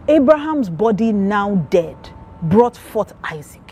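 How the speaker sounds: slow, firm, every word weighed; with conviction. Retold or imitated. Husband answering his wife, slow and full of conviction. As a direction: state it as settled fact, slowly. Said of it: "he just said with so much conviction".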